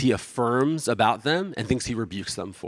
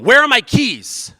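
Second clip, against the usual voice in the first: much higher, louder, slow frustrated yell; husband yelling for lost keys; loud, stretched-out demand; 11 semitones higher, 8 dB louder, slower than usual. Retold or imitated. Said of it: "I start yelling at my wife".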